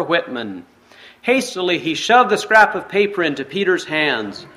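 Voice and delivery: measured read-aloud storytelling voice; story narration. A narrator's reading. Pastor reading a forgiveness story to the congregation, storytelling narration. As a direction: read the tale steadily to the listeners.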